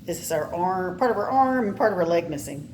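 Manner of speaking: usual speaking voice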